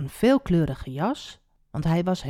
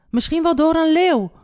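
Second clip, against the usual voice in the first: high, loud wail of dismay; distraught cry; 10 semitones higher, 5 dB louder than usual. A narrator's reading. Jacob imagines the beast, crying out distraught. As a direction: keep crying out in anguish. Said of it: "riep Jacob".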